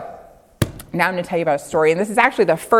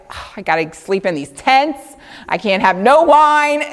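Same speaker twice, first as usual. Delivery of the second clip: mock complaining; 2 semitones higher than usual. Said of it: "they didn't sound like".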